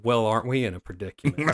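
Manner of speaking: smug laughing gloat; a little brother gloating over the older one, laughing. Retold or imitated. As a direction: savour the moment, laughing. Turning the tables on brother.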